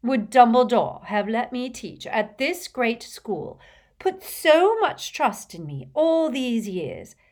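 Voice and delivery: high, loud, theatrical indignation; rather hysterical. A narrator's reading. Trelawney defending her gift to Harry, hysterically indignant. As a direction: rant with swelling wounded pride. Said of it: "Her voice rose rather hysterically".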